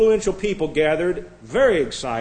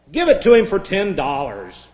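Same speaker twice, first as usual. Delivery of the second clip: louder call from the crowd; raised, impatient interjection; impatient heckle; 3 semitones higher, 6 dB louder than usual. Acted. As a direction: act out a bidder calling out.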